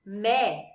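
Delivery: "mé" drawn out as a strong lone syllable; stressed syllable alone. Shown as a demonstration. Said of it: "é a sílaba mais forte".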